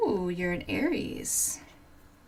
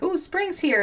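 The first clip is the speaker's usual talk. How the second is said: mock delight; 10 semitones higher, 4 dB louder than usual. Mock hopeful self quote.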